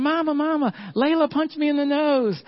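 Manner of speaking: put-on high, whiny little boy voice; squeaky crying-kid voice; crying toddler. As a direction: voice a three-year-old wailing. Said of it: "Henry's running around looking for Mom".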